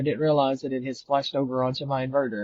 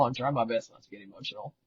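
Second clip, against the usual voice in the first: holding back tears; 2 semitones lower, 7 dB quieter than usual. Real, not acted. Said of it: "I don't wanna get emotional".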